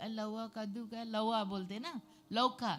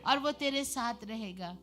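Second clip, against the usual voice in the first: high, loud, rising into a shouted hallelujah; brother's stirring shout of faith; fervent preaching shout; 5 semitones higher, 6 dB louder than usual. Retold or imitated. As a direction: proclaim it like a preacher at full force. Brother comforting crying sister.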